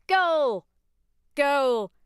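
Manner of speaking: high, loud excited yelling; frantic playful shouts; cried out. Acted. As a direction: shout across the field in play. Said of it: "cried Mister Beebe".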